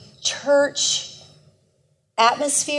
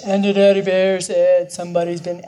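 daddy bear voice; 4 semitones lower, 3 dB louder than usual. Retold or imitated. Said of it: "she uses inflection".

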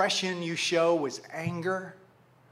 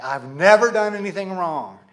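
loud, self-righteous insistence; 7 dB louder than usual. Acted. Son who grades himself on the curve, self-righteous. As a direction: press hard on your own innocence. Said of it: "don't you hear a little bit of self-righteousness".

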